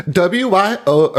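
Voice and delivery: imitating the contestant finishing with Wyoming in a bright Minnesota accent. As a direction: chirp the letters like a small-town Minnesota contestant. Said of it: "do the accent".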